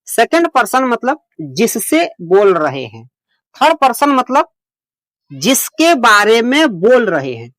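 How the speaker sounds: slow explaining. Shown as a demonstration. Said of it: "अभी मैं detail से समझाऊंगा।".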